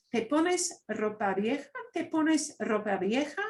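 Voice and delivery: rising question tune on "¿Te pones ropa vieja?"; question intonation. Shown as a demonstration. Teacher to students, "¿Te pones ropa vieja?" asked with a rising tune. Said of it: "you say it as a question with your voice".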